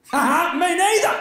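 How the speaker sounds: high, loud laughing reply; mock laugh. Comedian mimicking Terry's laughing reply. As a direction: burst out laughing high and bright.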